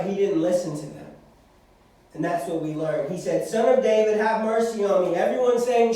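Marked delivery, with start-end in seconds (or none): 3.5-5.2 loud pleading cry; desperate beggar shouting for help. Acted. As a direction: call out for mercy over the crowd. Blind man crying out to Jesus.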